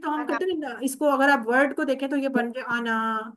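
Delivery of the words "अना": अना with a drawn-out final vowel; wrongly long अना. Shown as a demonstration. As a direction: stretch the ना of अना too long. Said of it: "इसको लंबा नहीं पढ़ना".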